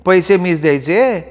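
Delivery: surprised question. A narrator's reading. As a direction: ask it in mild astonishment. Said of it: "वहिनीने आश्चर्यानं विचारलं".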